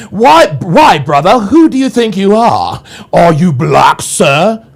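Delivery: lightly voiced mocking of the chatter; mocking imitation. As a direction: parrot the chatter back to ridicule it. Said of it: "you don't talk like that in real fucking life".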